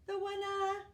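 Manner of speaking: high, loud shout across the lake. A narrator's reading. Gumboot shouting to the duck across the lake, loud cheer. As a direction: call out the winner with glee. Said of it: "shouted Gumboot across the lake".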